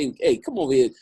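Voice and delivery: put-on high, strained old man call. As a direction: call out like a helpless grandpa. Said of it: "I was like an old man".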